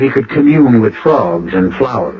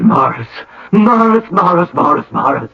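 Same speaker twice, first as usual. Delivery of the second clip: theatrical wailing; 7 semitones higher than usual. Acted. Designer's theatrical moaning.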